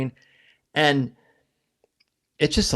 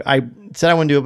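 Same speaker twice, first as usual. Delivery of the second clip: usual speaking voice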